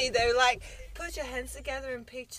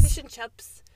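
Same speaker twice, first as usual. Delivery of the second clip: put-on New Zealand accent; 4 dB louder, slower than usual. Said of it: "thinking, like, New Zealand".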